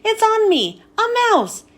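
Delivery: high panicked scream. Acted.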